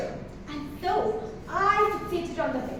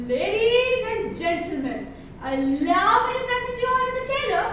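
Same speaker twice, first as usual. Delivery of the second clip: grand announcement; 3 semitones higher, 4 dB louder than usual. Acted.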